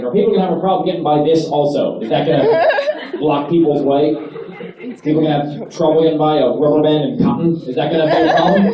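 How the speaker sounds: exasperated, sarcastic questions; hammed-up outrage at a flight attendant; mock rant. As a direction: rant at her like she's insane. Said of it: "I lost my shit".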